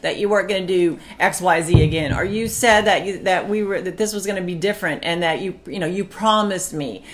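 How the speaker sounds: rising, exasperated outburst; a retold blowup at a husband who broke his promise; exploding at husband. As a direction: rant at him like you did back then. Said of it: "I would just explode and be like".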